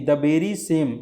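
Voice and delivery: very same word I have spoken, said slowly; drawn out for the class; teacher slowing down on the example; slow emphatic demo. Shown as a demonstration. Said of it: "एक चीज़ और प्रयोग कर सकते हैं".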